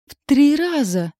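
husband yelling at the doctors; shout. A narrator's reading. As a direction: yell it wide-eyed in horror. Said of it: "вытаращил глаза и заорал".

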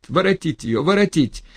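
high, loud order; urgent command. Acted. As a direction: shout to bring her back. Ordering her brought back.

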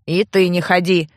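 grumbled. A narrator's reading. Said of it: "буркнул сумасшедший".

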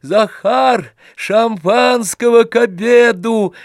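loud, high call to the servant; shouting. A narrator's reading. Oblomov calling to Zakhar, loud gleeful shout. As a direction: shout for champagne with glee. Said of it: "закричал он".

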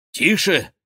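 urgent loud shush; sharp hush. A narrator's reading. The duke hushing everyone at a noise outside, urgently. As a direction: silence the room at once. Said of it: "крикнул голос герцога де Гиза".

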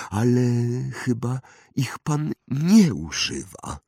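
high, pointed wandmaker voice; sharp questioning. A narrator's reading. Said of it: "zapytał ostro Oliwander". (ostre, podejrzliwe pytanie)

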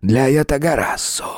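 coaxing, ingratiating spirit voice; silky, charming voice. Acted. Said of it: "вкрадчивый, чарующий голос".

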